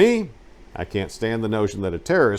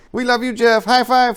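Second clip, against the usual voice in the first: high, bright, sing-song group cheer, a bit louder; girl soldiers calling out to Jeff in a high mock cheer; 6 dB louder than usual. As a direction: chant it like a gaggle of giddy soldiers. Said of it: "doing the".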